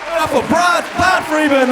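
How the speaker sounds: announcer shout. Real, not acted. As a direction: shout the name out to the crowd. MC calls applause for act.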